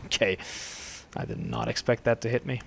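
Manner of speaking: hoarse from a dry throat. Real, not acted. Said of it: "I have a very dry throat right now".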